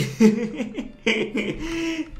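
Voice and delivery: startled nervous laughter. Real, not acted. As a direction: laugh off the fright. Laughs after the jump scare.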